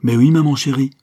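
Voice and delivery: put-on high, loud child's reply; spontaneous little boy. A narrator's reading. Little boy calls to his mother at the door, spontaneous. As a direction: pipe up eagerly like a small boy. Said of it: "répliqua spontanément le bambin".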